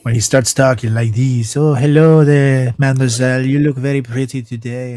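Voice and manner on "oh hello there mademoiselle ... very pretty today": put-on French accent. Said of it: "That French accent".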